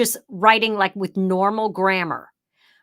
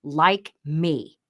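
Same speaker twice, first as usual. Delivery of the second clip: anchor read. Shown as a demonstration. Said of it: "I've written in all caps".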